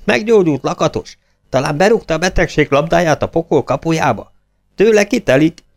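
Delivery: hope bursting out all at once; excited shouting. A narrator's reading. Club members shouting questions at the young man. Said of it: "Így kiabáltak össze-vissza".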